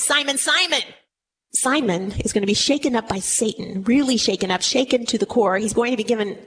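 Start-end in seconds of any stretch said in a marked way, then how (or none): 0.0-0.8 name called twice, pitched a little up; calling a name out. Acted. Preacher voicing Jesus calling Simon by his old name, lightly called out. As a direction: call out to him, once and once more. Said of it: "he's calling it out twice".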